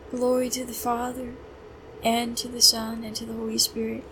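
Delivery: measured address to God; prayer reading. Real, not acted. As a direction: pray it phrase by phrase, unhurried. Reads the psalm prayer.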